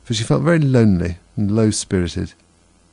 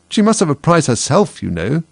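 mouse voice; 7 semitones higher, 4 dB louder than usual. A narrator's reading.

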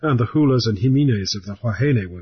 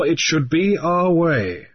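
gravely; 6 semitones higher, slower than usual. Acted. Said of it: "Grief answered gravely".

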